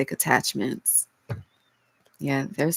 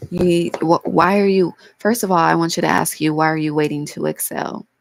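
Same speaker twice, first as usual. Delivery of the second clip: emphatic; 6 dB louder than usual. Real, not acted. Urgent challenge to the viewer.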